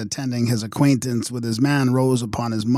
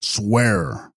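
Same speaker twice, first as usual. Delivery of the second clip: dying man's cry. Acted. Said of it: "cried the dying man".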